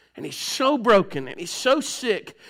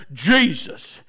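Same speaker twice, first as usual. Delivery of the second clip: slow mock-preacher drawn-out word; put-on pulpit solemnity; 6 semitones lower than usual. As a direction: stretch the name out like a churchy preacher. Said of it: "when I get up here".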